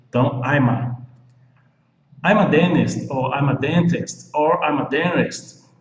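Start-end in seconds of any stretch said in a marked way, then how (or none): 2.2-3.1 "dentist" as "dennist", punched higher and louder; silent T. Shown as a demonstration. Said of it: "com T mudo". 3.3-4.3 "dentist" with a clear T after the N; T fully sounded. Shown as a demonstration. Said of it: "vamos seguir aqui na fonética". 4.6-5.7 "dentist" with an R-like tap in the middle. Shown as a demonstration. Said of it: "vamos seguir aqui na fonética".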